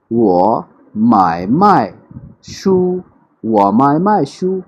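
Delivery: वो माय माय शू said slowly with dip then fall on माय; 我买卖书; Chinese sentence demo. Shown as a demonstration. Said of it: "For example, मैं कहता हूँ".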